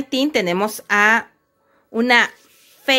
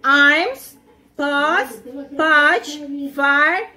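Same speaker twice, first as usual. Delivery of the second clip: teacher drilling vocabulary; much slower than usual. Shown as a demonstration.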